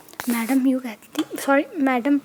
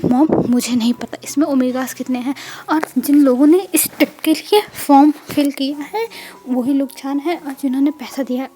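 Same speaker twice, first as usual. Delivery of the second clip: heated pleading; 7 dB louder than usual. Acted. Wing argues back with mom.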